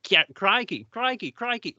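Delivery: high, repeated mock-Australian exclamations; Australian accent. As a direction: rattle off an Australian catchphrase in imitation. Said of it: "do my Australian accent".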